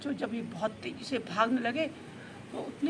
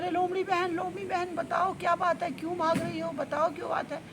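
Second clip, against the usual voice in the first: higher-pitched, urgent questioning call; mild calling yell; 5 semitones higher than usual. Acted. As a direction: call after someone running ahead, mock-shouting. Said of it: "चिल्ला रहा है". (ऊँचे सुर में हल्की पुकार)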